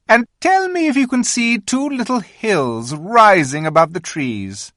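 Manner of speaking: high, commanding queen voice; a regal witch giving orders; queen instructing the boy Edmund, commanding. A narrator's reading. The Queen points the way.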